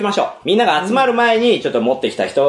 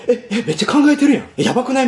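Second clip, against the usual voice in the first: quick, higher-pitched mock panic; mock alarmed reaction; 4 semitones higher, much faster than usual. Host voices opponents spooked by the fake calculating, mock alarmed. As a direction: play a rattled onlooker, half laughing. Imitating rattled rival players.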